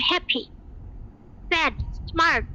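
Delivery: each word a single unbroken clap; one-beat words. Shown as a demonstration. Teacher showing one-clap adjectives, each word said in one go. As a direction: say হ্যাপি, স্যাড, স্মার্ট each in one go, pause between. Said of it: "এগুলো যখন বলি একটা তালি".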